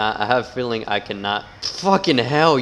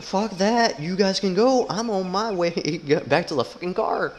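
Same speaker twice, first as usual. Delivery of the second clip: mock bail-out line; 8 semitones higher than usual. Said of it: "I'd be like".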